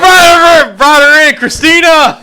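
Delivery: high, loud laughing words; laughing loudly. Real, not acted. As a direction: talk through big laughter. Laughing at the cutout.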